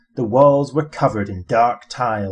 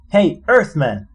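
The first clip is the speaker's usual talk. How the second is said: louder, higher repeat of the call; calling again; 5 semitones higher, 4 dB louder than usual. Acted. Zaphod calling Arthur again to get his attention, a louder call. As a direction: call him a second time.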